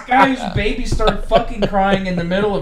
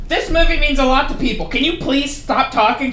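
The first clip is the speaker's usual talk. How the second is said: higher, pleading complaint in imitation; mock indignant plea; 5 semitones higher, 3 dB louder than usual. Moviegoer tells a drunk woman to stop talking, mock indignant. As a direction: act out an exasperated moviegoer's complaint. Acting out theater quarrel.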